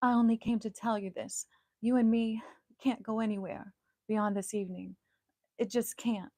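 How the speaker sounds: lightly played romantic lead turning him down; a pop star's voice. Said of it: "I'm gonna do my pop star voice".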